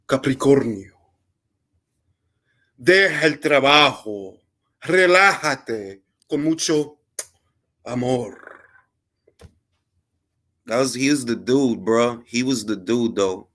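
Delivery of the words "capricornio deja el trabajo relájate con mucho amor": mock TV psychic. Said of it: "He'll be like".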